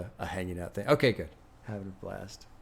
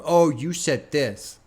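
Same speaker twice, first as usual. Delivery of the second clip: slow, louder, exaggerated sneer at the accusers; mocking quote; 4 semitones higher, 5 dB louder, slower than usual. Streamer mocking online critics who dig up old posts, slow snide gotcha.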